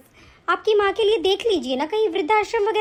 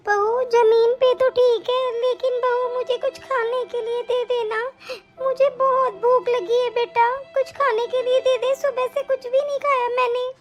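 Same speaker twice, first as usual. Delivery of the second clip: pleading grandmother; 5 semitones higher than usual. Acted. Grandmother begs for food.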